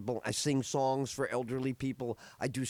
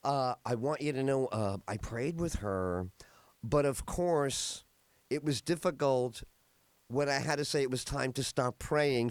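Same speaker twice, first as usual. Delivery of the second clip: heartfelt nurse. Retold or imitated. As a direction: say it like you truly mean it. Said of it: "here's how she said it to me".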